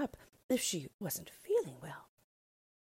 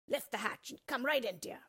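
gently; 6 semitones higher than usual. Acted. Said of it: "called back as gently as they could".

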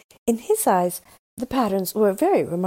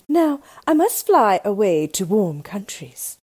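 Snow Queen; 4 dB louder than usual. Acted. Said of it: "said the Snow Queen".

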